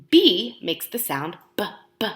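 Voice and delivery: "B" as a short "buh"; letter sound demo. Shown as a demonstration.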